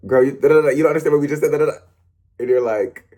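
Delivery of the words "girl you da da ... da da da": fast jabber. Retold or imitated. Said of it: "We're like".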